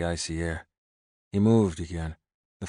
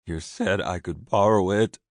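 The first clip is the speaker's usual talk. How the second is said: pleading; 6 dB louder than usual. A narrator's reading. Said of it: "he pleaded".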